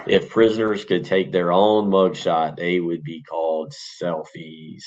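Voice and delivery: slow joke retelling. Shown as a demonstration. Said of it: "here's the dad joke of the day".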